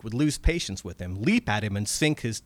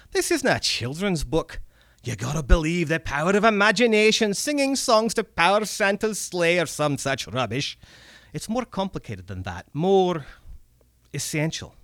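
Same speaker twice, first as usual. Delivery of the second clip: higher, dismissive Scots goblin; scoffing old goblin; 5 semitones higher than usual. Acted. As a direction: brush off the fairy-tale notion. Red cap scoffing.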